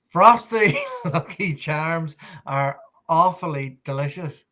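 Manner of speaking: slow, laughing, stumbling slogan; laughing through it. Pretend. Irish guest says the slogan on request, laughing. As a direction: giggle your way through the line. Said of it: "can you just say these words".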